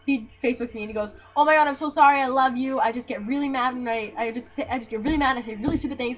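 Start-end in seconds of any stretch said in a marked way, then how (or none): 1.4-6.2 hurried, mildly imitated pleading apology; gushing apology. Ex begging to get back together, mock apology. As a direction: mimic someone apologizing in a breathless run-on.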